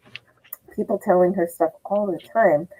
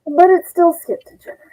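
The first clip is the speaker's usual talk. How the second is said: mom's deadpan verdict; 10 semitones higher, faster than usual. Retold or imitated. Mom's punchline.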